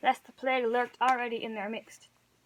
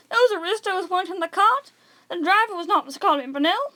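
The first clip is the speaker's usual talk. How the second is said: raised, louder triumphant telling; spring the news on the crowd; gloating reveal; 7 semitones higher, 5 dB louder than usual. A narrator's reading.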